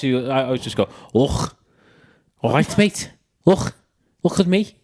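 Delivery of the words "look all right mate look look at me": put-on Scouse greeting; Scouse accent. Shown as a demonstration. Showing mates his go-to accent, exaggerated Scouse. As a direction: do a quick Scouse impression. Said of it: "I just go to scouts".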